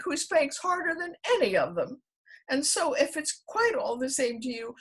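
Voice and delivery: put-on high, loud, pleading child voice; pleading elephant's child. A narrator's reading. The elephant's child complains to the crocodile, high and loud. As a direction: pour out the list of grievances, high.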